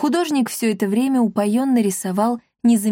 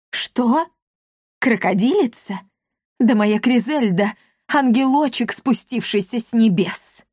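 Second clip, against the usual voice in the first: indignant; 3 semitones higher than usual. A narrator's reading. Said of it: "готов был лопнуть от негодования".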